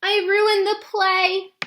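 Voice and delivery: put-on upset little girl. Girl ashamed after falling on stage.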